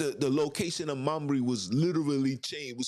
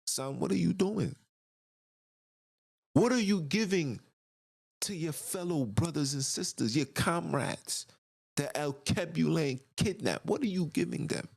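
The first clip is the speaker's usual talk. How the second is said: higher, pressing motherly questions; Mama Love questioning her son, voiced higher; 5 semitones higher than usual. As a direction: question him like a concerned mother. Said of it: "Mama Love saying".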